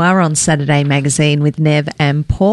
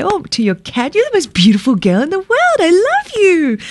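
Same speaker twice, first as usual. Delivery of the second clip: much higher, fast cooing to the cat; pet talk; 11 semitones higher than usual. Retold or imitated. Host cooing to his cat, much higher and fast. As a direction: gush over the cat in a high sing-song. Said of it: "you come home and you say".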